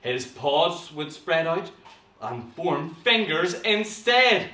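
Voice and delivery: put-on slow, dramatic reading to children; measured, suspenseful storytelling; story narration. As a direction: draw out each step of the transformation. Reads story aloud.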